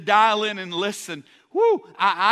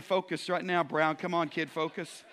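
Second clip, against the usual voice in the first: a quieter, fatherly nudge; God's voice, gently; 4 semitones lower, 5 dB quieter than usual. Retold or imitated. God nudging the distracted preacher, softly. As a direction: hush it like a patient coach. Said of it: "And right now he's saying".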